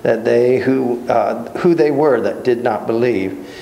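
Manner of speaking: measured reading of a Bible passage; steady formal reading voice; scripture reading. Acted. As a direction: read the passage aloud to the class. Reads scripture aloud to class.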